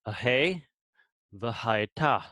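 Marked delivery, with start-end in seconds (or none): 1.4-2.2 "v'hayta" ending on an open "ah"; silent final hey. Shown as a demonstration. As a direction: leave the last h of "v'hayta" silent. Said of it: "It's, it's silent".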